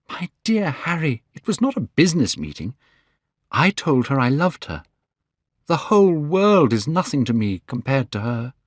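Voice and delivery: put-on young Dorian Gray. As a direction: lift the voice for a young man in love.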